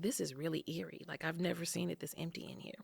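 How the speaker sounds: softly spooked in the empty lobby; hushed. Retold or imitated. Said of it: "I was like".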